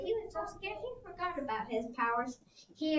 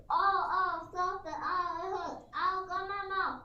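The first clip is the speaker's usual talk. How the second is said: higher whiny cries of hurt; T. rex in pain; 4 semitones higher than usual. Acted. T. rex whining while Edna pecks his tongue. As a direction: whimper like a pecked dinosaur.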